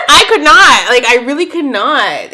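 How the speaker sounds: high loud laugh into the words; real laughter then I could not; laughing outburst. Real, not acted. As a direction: laugh it out, too much to handle. Laughing at the scene.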